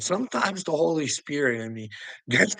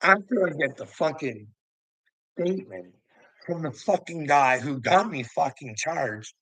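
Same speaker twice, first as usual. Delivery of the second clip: ordinary delivery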